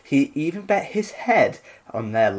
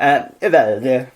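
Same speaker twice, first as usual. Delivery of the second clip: put-on Italian accent; 3 dB louder than usual. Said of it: "you're still doing an Italian accent".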